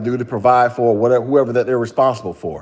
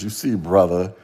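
mock conspiracy preacher; 6 semitones lower than usual. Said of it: "what does Progressive Knowledge say".

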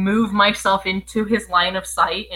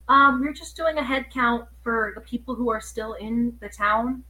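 soft hesitant asking; timid quiet; 10 dB quieter than usual. Acted. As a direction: ask gently, almost fading out. Player speaks timidly to grieving man.

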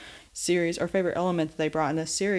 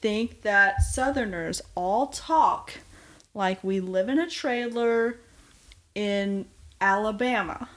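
exasperated rant; 4 semitones higher than usual. Real, not acted. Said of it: "All right, that's my rant".

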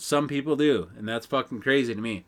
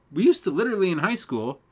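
voice crack; 5 semitones higher than usual. Real, not acted. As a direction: voice cracking mid-sentence. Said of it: "voice crack".

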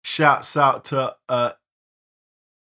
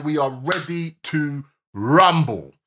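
ring announcer. Pretend. Announcer catchphrase opening the show.

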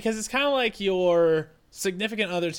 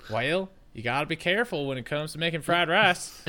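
put-on Southern accent; 2 semitones lower, 3 dB quieter than usual. Telling roommate about fried rice, in a Southern accent. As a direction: slip into a mock Southern accent. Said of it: "speaking in a Southern accent".

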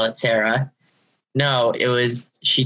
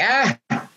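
short high yelp at normal volume; held-back mock scream; 7 semitones higher than usual. Officer retelling a spider scare in the car, restrained mock scream. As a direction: imitate a scream without really screaming. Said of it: "I'm not actually going to scream".

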